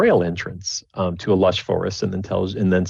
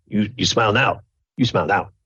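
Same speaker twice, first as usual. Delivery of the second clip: goblin creature voice. Voicing a goblin telling the players to smile for a photo: goblin voice. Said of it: "the goblin's like".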